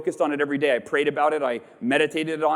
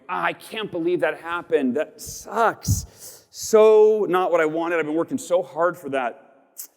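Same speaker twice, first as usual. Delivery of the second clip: disappointed grumble; 2 semitones higher, slower than usual. Retold or imitated. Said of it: "I go".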